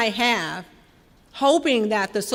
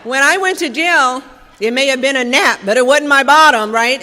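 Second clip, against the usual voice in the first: laughing; 4 semitones higher, 9 dB louder than usual. Real, not acted.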